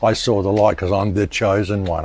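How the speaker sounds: understated sarcasm, imitating a self-proclaimed prophet; mock the grand claim dryly; sarcastic. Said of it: "I'm being sarcastic about".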